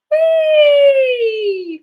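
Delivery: very high, loud sustained "Wee!". Shown as a demonstration. Coach showing students a high "Wee!" warm-up. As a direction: soar up on a long bright "Wee!". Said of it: "Notice the roof of your mouth changes".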